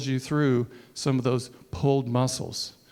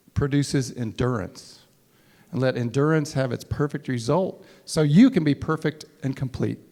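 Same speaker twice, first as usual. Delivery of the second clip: scripture reading. Acted.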